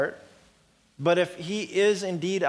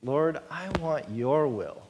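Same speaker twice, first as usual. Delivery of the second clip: humble prayer. Acted. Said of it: "our desire should be".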